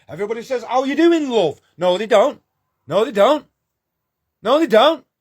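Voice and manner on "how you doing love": a light Cockney caricature of a friendly greeting; mock Cockney greeting. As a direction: toss off a hammed-up Cockney "How you doing, love". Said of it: "It's like a Cockney caricature".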